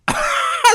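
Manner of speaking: a sudden high shriek of a laugh. Real, not acted. Host cracking up at a viewer's comment, shrieking laugh.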